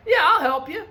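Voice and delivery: teacher's goofy voice for the British; silly put-on voice. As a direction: ham up an odd cartoonish helper. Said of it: "I don't know what voice that was".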